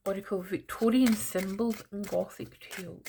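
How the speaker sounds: a light touch of a posh English voice; lightly put-on upper-class lilt; mock posh. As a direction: read the deck name a little posh, half in jest. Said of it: "in a bit of a posh voice".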